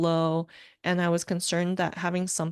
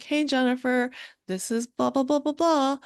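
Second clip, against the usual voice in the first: imitated caller; 6 semitones higher than usual. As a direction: mimic a caller rattling off an introduction. Voicing caller in retold phone call.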